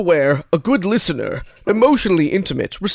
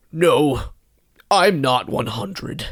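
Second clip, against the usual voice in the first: put-on old man voice; much slower than usual. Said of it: "old man voice".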